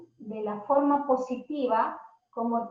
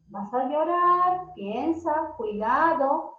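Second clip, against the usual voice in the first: gentle warning; much slower than usual. Shown as a demonstration. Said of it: "es que digamos".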